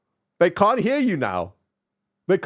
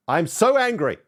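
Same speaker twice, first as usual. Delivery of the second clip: frustrated outburst; 5 semitones higher than usual. Real, not acted. Complaining to his friend about broken audio, exasperated. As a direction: let it pop out in exasperation.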